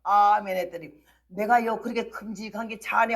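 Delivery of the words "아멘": drawn-out amen, emphatic start; wide-mouthed amen. Retold or imitated. Demonstrating the amen to listeners, open-mouthed and emphatic. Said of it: "입을 벌리고 있는 아가리 다 벌리고".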